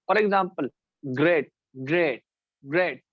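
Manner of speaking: ग्रेट said slowly as a single beat; one-syllable demo. Shown as a demonstration. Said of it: "एक दफा जुबान हरकत कर रही है".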